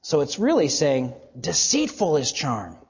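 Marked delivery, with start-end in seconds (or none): 1.4-2.8 "Deceitful" leaned on, then falling away; "Deceitful" emphasized as the first word; stress on Deceitful. Shown as a demonstration. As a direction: put the weight on "Deceitful" up front. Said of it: "It's being emphasized".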